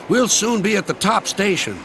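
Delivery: high, upbeat reassurance; encouraging. A narrator's reading. Driver promises the top is near, encouraging. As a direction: lift the voice to cheer them along. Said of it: "encouraged the driver".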